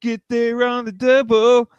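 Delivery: high, slow heroic cartoon line; cartoon catchphrase. Quoting the kids' cartoon to friends, high heroic call. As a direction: bark it like the cartoon pup leader.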